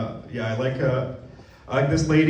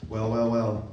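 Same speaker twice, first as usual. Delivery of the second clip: mock deep hero; 6 semitones lower, 5 dB quieter than usual. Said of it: "I was like".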